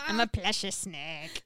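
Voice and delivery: laughing through the words. Real, not acted. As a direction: giggle out plushy snake, slowly. Laughing while playing snake.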